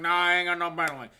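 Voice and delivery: loud, slurred Southern country voice; Southern holler accent. Retold or imitated. Holler resident refusing blankets, slurred Southern accent. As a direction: answer like a drunk North Carolina local. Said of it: "you're talking like that".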